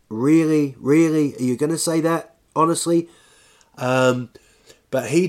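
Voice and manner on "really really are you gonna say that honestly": louder, punched mock disbelief; incredulous reaction. Challenging Trump over his million dollars, incredulous. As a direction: challenge it, hitting each "really".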